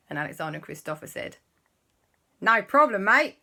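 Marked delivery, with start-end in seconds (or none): 2.4-3.4 loud, hammed-up Aussie accent; put-on Australian accent. Children reassure Mummy and Papa, mock Australian accent. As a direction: chirp it high in a bad Australian twang. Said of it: "we'll just talk like this for a little while".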